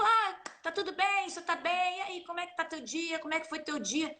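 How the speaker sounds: relaxed everyday tá tudo bem, quick; casual greeting. Shown as a demonstration. Teacher demos the casual everyday greeting, relaxed. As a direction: chat easily like a friend. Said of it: "Então, eu falo".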